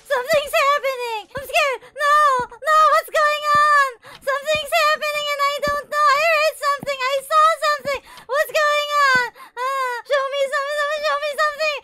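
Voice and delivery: high, tense frightened voice; scared. Real, not acted. Gamer scared of something outside, frightened high voice.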